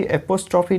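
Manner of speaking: एपोस्ट्रॉफी opened with an "ae" sound; common mispronunciation. Shown as a demonstration. Teacher quotes how many people say it, mispronounced एपोस्ट्रॉफी with "ae" first. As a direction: say एपोस्ट्रॉफी with "ae-po" at the start. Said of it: "नहीं होता है".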